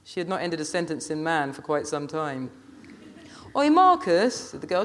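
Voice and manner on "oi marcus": put-on high, loud girl's call. A narrator's reading. Girl calling across to Marcus, sharp high shout. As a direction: yell to get his attention.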